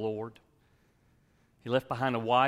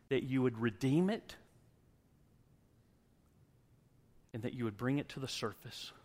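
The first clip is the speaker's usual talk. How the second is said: closing prayer; 2 semitones higher than usual. Acted.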